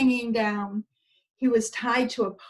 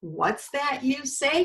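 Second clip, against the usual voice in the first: dreading cry; 5 semitones higher than usual. Acted. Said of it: "cried the donkey with dread".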